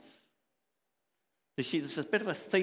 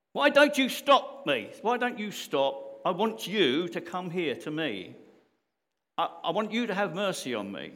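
screaming, much higher and louder, pleading; desperate scream; 7 semitones higher, 7 dB louder than usual. Retold or imitated. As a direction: yell it out like a blind man begging to be heard. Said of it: "it said he screamed at him".

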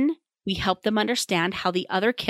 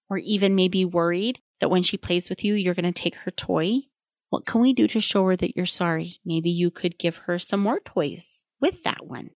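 patient parent voice. Shown as a demonstration. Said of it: "Here's how this can look".

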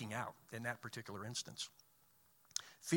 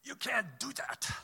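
put-on slow, high-pitched German-accented objection; thick German accent; 10 semitones higher than usual. German partner objecting in a project meeting, thick German accent. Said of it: "in a thick German accent".

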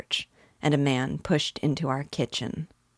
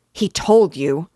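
shocked; 3 semitones higher, 9 dB louder than usual. Acted. Father jolts up in shock.

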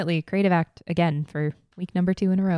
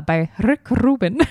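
by Rick Rubin said slow and louder in a put-on accent; 3 semitones higher, 5 dB louder, slower than usual. Cohost naming the book author in a playful put-on accent. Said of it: "I don't know why you give it that accent".

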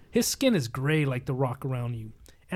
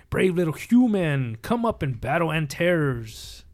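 slow giant call; slower than usual. Acted. Giant Antares challenges the hero.

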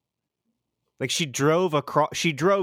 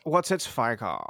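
vocal fry; 2 semitones lower than usual. Shown as a demonstration. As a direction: creak through the words. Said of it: "I can actually do that really well".

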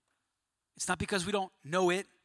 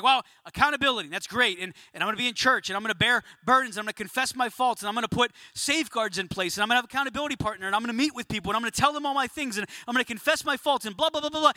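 quick, higher-pitched mock recital; rattled-off list; 3 semitones higher, faster than usual. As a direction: reel off the familiar answers dismissively. Mimics people listing glib church answers.

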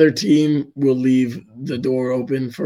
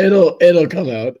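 slow, louder hoarse voice cracking; 5 semitones higher, 9 dB louder than usual. Real, not acted. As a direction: strain through a raspy, breaking throat. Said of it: "There it is".

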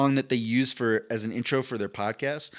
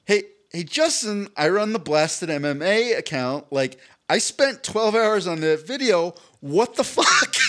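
mock confrontation; 5 semitones higher, 4 dB louder, slower than usual. Confronting the coach in hallway.

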